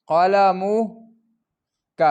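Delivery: qalamuka, each syllable drawn out; very slow demo. Shown as a demonstration. Teacher slowly sounding qalamuka for the class. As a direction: stretch قلمك out slowly as qa-la-mu-ka. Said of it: "انظروا".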